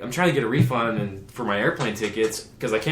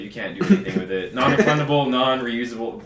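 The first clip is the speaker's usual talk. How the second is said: laughing mock rep; 2 semitones higher, 6 dB louder than usual. Mocking the airline rep.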